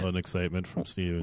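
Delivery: soft, low, quick hushed tone. Acted. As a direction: hurry it out under your breath. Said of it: "Why are you talking like that?".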